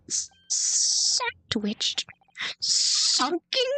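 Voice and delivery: high, stunned disbelief; shocked. Acted. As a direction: squeak out the shock. Shocked at coin in meat.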